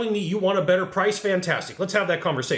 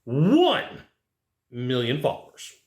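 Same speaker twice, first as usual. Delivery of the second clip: bragging influencer; slower than usual. Retold or imitated. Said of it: "the influencer is gonna come back".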